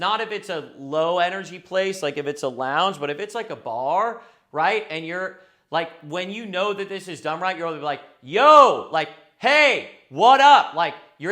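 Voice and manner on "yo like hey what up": projected yell, very loud and very slow. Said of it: "able to basically yell".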